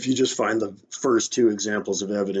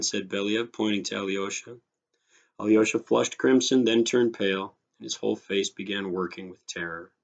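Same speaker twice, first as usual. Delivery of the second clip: animated short-story reading with voiced dialogue; story narration. A narrator's reading. Teacher reads a story to students, expressive narration. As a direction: read it out expressively, acting the dialogue lightly.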